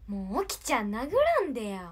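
loud mock plea not to be hit; Honoka impression. Impersonating Honoka begging Oki-chan to stop hitting her, loud whine. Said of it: "矢野ほのかのモノマネやって".

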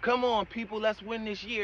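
needing a cosigner to get moving; imitating hesitant listeners cheering themselves on; mock rally cry. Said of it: "Now you back here".

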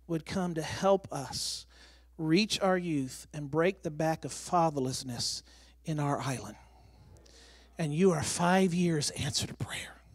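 slow, softened, earnest quote; solemn retelling. Retold or imitated. Governor telling pastor he answers their prayers, solemn and hushed. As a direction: retell it gently and deliberately, letting each phrase settle.

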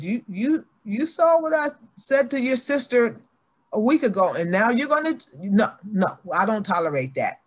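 a hint of a furious mother; angry scolding mother. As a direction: scold the child hard after a whack. Mother scolding after a smack.

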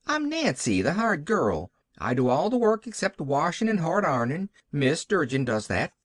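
lightly voiced country hired girl; Nancy. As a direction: set her straight with a hint of fluster. Nancy introduces herself as hired girl.

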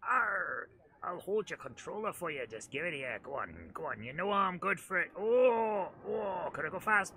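rustic pirate wheedling; farmer pirate voice. Pretend. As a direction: coax like a yokel pirate. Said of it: "I sounded like a farmer crossed with a pirate".

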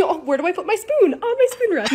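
lightly acted puzzlement, then a high answer; playful mock wondering, lifting high at the end; pretend cook's dilemma. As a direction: act out a little kitchen question and solution. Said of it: "Just imagine you're cooking".

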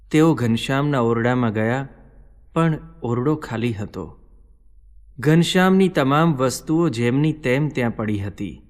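usual speaking voice

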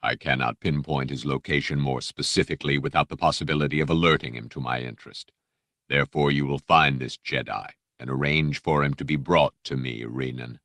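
low, smooth, polite threat; lightly voiced Dark Lord; silky menacing Vader. Vader dismissing the Jedi, silky and menacing. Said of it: "that silky, menacing voice".

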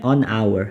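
"an hour" with silent H after the n; vowel-initial hour. Shown as a demonstration. Teacher models the article for students, "an hour" with silent H. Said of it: "모음으로 발음 나기 때문에".

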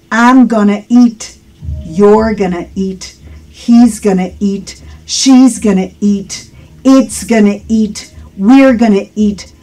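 measured, clearly articulated model sentences; deliberate drill. Shown as a demonstration. Teacher drills "gonna eat" for learners, deliberate model delivery. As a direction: leave each short sentence room to be repeated. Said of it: "Otra vez, conmigo".

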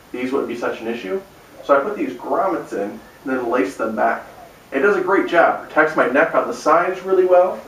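muffled through padded helmet; speaking inside a helmet. Real, not acted. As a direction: voice behind face cover. Seen 0: Helmet covers head and face throughout; put on at -2, removed by 23.

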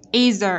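"Is a" joined as "i-za"; teacher demo of linked "Is a"; linking demo. Shown as a demonstration. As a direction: slide the z of "Is" into "a". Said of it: "ở đây cô cũng nối âm này".

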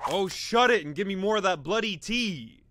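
put-on low, quick, soft British accent; mock British accent. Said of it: "Yo mom's so British!".

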